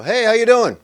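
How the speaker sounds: high, loud breezy hello; exaggerated fake-friendly holler; mock hearty greeting. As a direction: call it out cheerily as if walking past. Mimics hollow greeting in passing.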